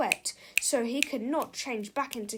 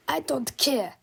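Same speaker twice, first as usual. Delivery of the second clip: crying out; 2 semitones higher, 3 dB louder than usual. Acted. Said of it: "cried Big Tippy".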